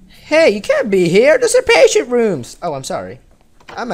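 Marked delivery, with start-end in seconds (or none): 0.1-2.6 higher, louder, shooing the intruder away; a stern nurse telling off a visitor; scolding nurse. Acted. Voicing the nurse who scolds.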